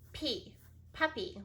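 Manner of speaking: P, puppy sounded out slowly; slow teacher sounding-out; split syllables. Shown as a demonstration. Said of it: "it gets split right there".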